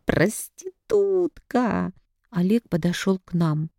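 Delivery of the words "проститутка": drawn-out slur, pitched high; mother screaming an insult at her daughter; furious slow yell. A narrator's reading. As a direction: spit the insult out slowly in fury. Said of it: "А я тёрла и кричала".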